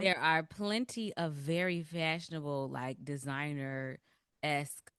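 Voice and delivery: slow, condescending tone; patronizing. Real, not acted. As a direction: talk down to them slowly. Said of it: "That sounds very patronizing".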